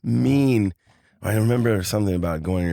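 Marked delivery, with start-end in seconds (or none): 0.0-0.7 higher, louder baffled questioning; mock bewilderment, pitched up; puzzled question. Boy questions the voice he heard, puzzled.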